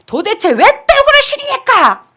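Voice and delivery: high, loud, slow scolding question; exasperated rebuke. Retold or imitated. Pastor rebuking a stubborn member, high exasperated scolding. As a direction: demand an answer, fed up. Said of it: "제가 감이 팍 찔르죠".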